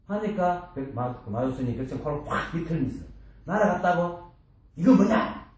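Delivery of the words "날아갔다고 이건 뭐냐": master's sharp challenge. Retold or imitated. Master twists disciple's nose.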